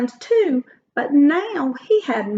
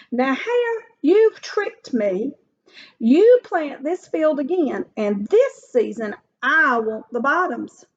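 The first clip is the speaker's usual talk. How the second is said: indignant Bear; 3 semitones higher than usual. Acted. Bear protests being tricked.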